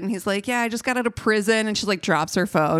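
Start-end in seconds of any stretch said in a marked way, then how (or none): 0.5-1.7 lightly imitated Irish accent, pitched up. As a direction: mimic an Irish guy's casual boast. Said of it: "he uses his Irish accent".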